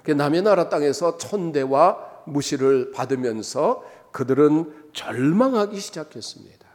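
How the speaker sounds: normal talking voice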